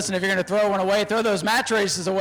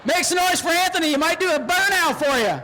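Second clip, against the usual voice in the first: crowd hype; 3 semitones higher than usual. Real, not acted. Announcer hyping the grandstand crowd.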